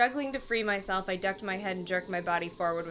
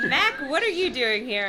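choked out; 3 semitones higher, 5 dB louder than usual. Acted. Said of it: "I choked out".

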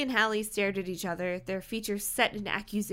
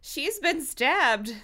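slow, higher choked announcement; 6 semitones higher, 4 dB louder, slower than usual. Acted. Clown voiced after Brenda is stabbed, choked out. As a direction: choke it out in shock. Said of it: "managed to choke out".

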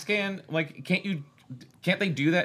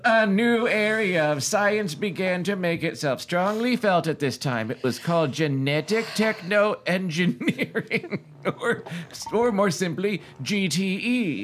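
committed narrator voice; slower than usual. Acted. Host reading a novel aloud in a committed narrator voice. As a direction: read it out with a narrator's measured formality.

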